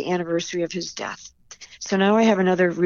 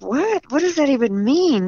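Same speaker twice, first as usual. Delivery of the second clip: incredulous what; 6 semitones higher than usual. Retold or imitated. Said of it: "really surprised at his response".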